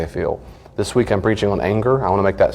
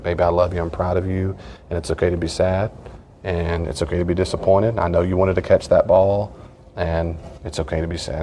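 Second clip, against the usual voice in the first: retold gentle reassurance; 3 dB quieter than usual. Father comforting his crying son.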